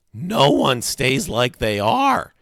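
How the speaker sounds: put-on high, slow, loud kid voice; high-pitched know-it-all explanation; lecturing boy. A narrator's reading. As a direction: spell it out slowly, as to someone slow. Freak explains as if to slow pupil.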